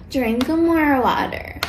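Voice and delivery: very drawn-out singsong parody; mocking advice. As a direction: stretch it out to mock the advice. Mocks stock answer to constipation.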